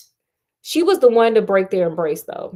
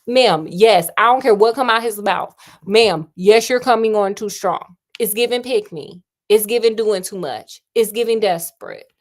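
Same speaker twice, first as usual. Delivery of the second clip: louder, sassy call-out of her behavior; sassy scolding; 5 dB louder than usual. Real, not acted. Host calling out the pushy heroine, loud and sassy. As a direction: read her for filth.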